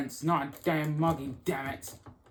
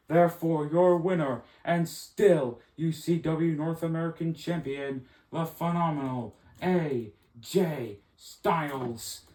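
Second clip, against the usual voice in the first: ring announcer. Acted. Ring announcer declares the result.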